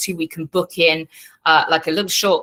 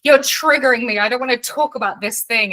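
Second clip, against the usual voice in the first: put-on bratty kid; 5 semitones higher than usual. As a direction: play the sulky daughter refusing her mom. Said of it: "a kid had said to her mother".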